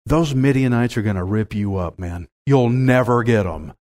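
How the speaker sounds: low, dismissive aside; doubting townsmen. Acted. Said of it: "men of Succoth and Penuel are thinking".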